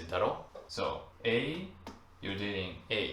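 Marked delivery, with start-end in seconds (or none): 0.0-0.4 casual daro. Shown as a demonstration. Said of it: "you would say".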